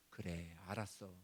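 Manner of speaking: 아주 낮고 부드럽게 달래듯; 품에 안아 주듯 조용히; 다정하게. Retold or imitated. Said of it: "우리를 보듬어 주시고". (하나님이 자녀를 보듬으며 달래는 말투)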